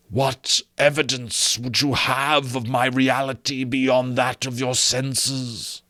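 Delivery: high, very slow, eerie ghost; slow ghostly voice. Acted. Marley's ghost challenging Scrooge, slow and eerie. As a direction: draw it out from beyond the grave.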